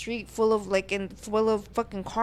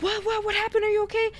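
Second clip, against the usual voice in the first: put-on boyfriend; 11 semitones higher, faster than usual. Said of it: "he's like".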